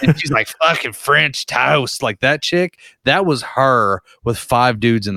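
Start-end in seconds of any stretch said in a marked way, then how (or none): 0.6-2.0 slow, drawn-out drunk girl impression; drawling tipsy movie character. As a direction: imitate a drunk girl, stretching the words. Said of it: "the drunk girl".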